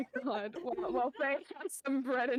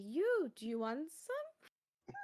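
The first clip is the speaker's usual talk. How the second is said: in-character offer; 3 semitones higher than usual. Acted. Faye offering coffee, in character.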